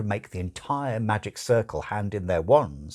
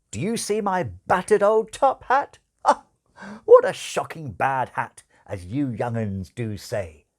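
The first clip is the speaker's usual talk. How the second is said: put-on higher, louder, old-fashioned showman patter; hammed-up stage magician; 5 semitones higher, 6 dB louder than usual. Angel as magician performing for bored children, loud hammy patter. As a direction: ham it up for the children like a music-hall conjurer. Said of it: "his old patter began".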